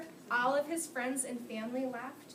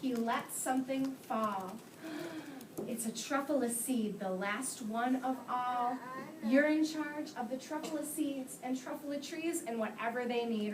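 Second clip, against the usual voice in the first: put-on reading to children. A narrator's reading. Teacher reads The Lorax aloud.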